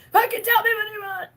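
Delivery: high, loud, frustrated plea; half-laughing cry of frustration; loud, teary exasperation; exasperated outburst. Real, not acted. Exasperated at silent audience.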